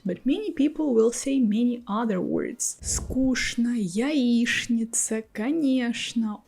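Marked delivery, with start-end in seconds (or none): 2.8-6.4 "sh" for ч in Скучно, яичница, конечно. Shown as a demonstration. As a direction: say Скучно as "skoosh-na", яичница as "ya-eesh-nitsa", конечно as "ka-nyesh-na". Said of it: "some people pronounce with the sound".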